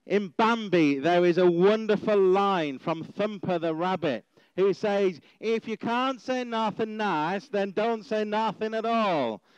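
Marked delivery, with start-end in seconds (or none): 5.4-9.4 clumsy, bad put-on American accent. Opening a sermon by quoting a Disney line, in a bad American accent. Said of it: "that's my attempt at an American accent".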